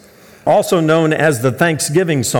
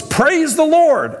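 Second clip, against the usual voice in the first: much higher, slow shout of Praise the Lord; 12 semitones higher, much slower than usual. Retold or imitated. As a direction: yell it with all your lungs to spur the horse. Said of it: "he shouted at the top of his lungs".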